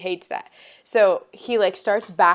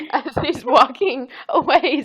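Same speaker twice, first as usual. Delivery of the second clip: higher, louder, breaking into laughter; laughing; 5 semitones higher, 5 dB louder than usual. Real, not acted. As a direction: tell it through real giggles. Cracking up telling toddler story.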